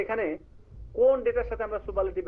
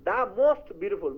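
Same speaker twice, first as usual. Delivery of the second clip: slow example; much slower than usual. Shown as a demonstration. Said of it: "most beautiful মানে superlative".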